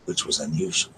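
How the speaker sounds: calm, even reading of a novel; story narration. Acted. Streamer reads a book excerpt to her viewers, calm narration. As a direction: read the passage aloud, steady and unhurried.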